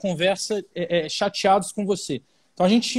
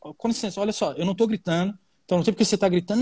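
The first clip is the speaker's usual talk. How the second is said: calm, not shouting; faster than usual. Retold or imitated. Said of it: "a pessoa começa a aumentar o tom de voz".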